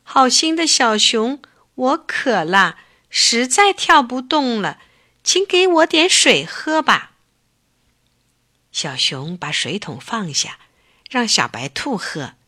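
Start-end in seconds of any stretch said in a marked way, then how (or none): 0.0-7.1 a worn-out rabbit pleading for water. Acted. Tired rabbit begs the bear for water, mild pleading. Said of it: "央求小熊说".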